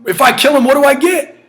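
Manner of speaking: high, eager what do I get; urgent self-questioning. Acted. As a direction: lift the voice on each question. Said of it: "David says".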